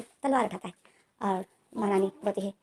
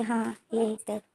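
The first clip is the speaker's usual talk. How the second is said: slow, smiling yes; a slow, soft smile in the voice; smiling reply; 3 dB quieter, slower than usual. Retold or imitated. Wing smiling at Lanjan, slow and soft. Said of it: "विंग जो smile करके बोल रहा था".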